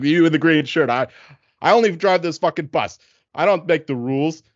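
driver going off. Retold or imitated. Passenger imitates bus driver telling off a rider, going off. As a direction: act out a fed-up bus driver scolding a passenger. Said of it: "driver just starts going off".

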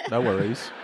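imitated Australian "No worries"; Australian accent. Shown as a demonstration. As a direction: answer thanks with a mock Australian "No worries". Demonstrates Australian reply to thanks.

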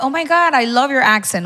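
put-on American accent. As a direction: mimic a gushing American fan's accent. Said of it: "los mismos gringos más bien dicen".

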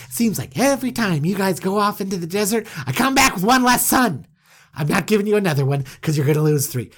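mock outraged Jacob berating his sons; indignant father. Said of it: "this is how Jacob probably responds".

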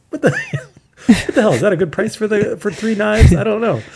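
high, loud, puzzled parent asking Alexa; imitating a parent. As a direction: play a baffled parent quizzing the speaker. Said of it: "my parents do that too".

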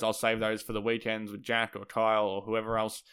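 hoarse, croaky voice; talking through a croaky sore throat. Real, not acted. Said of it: "this stupid croaky voice that I have".

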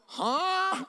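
high, baffled huh; imitating a confused question.

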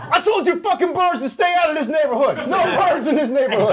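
a touch of a grumpy car. Pretend. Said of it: "can I be the car".

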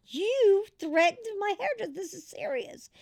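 high-pitched, heated mock scolding; retold scolding. Wife scolding her husband over the hairdresser, heated retold anger. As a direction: tell him off like he's in trouble. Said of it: "I said".

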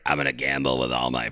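put-on low old gambling grandma; mock elderly Atlantic City voice. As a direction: put on a seventy-year-old's voice, dropped low. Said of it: "He sounds like a seventy-year-old grandma from Atlantic City".

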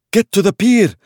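high, loud shouted order; shouting. Acted. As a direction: bark the order over chaos. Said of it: "Osman shouted".

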